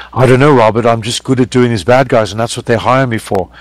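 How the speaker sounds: a light hint of a New Zealand accent; a faint New Zealand accent, modest and easygoing; New Zealand accent, Cliff Curtis. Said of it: "he talks like this with the New Zealand accent".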